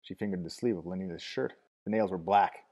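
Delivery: high, tearful rush of words; high sobbing crone voice; gushing old woman. A narrator's reading. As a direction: pour it all out to the visitor. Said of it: "the torrent of words flowed sobbingly".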